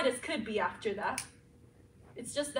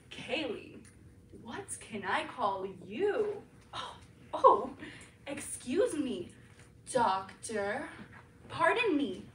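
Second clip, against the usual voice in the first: seductive alter; 3 semitones lower, 3 dB quieter than usual. Acted. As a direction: tease the doctor low and quiet.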